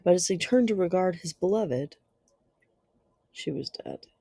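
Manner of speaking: measured, dramatic reading with long pauses; gothic story narration. Acted. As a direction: narrate a dark classic tale, letting phrases hang. Reads a Gothic tale aloud.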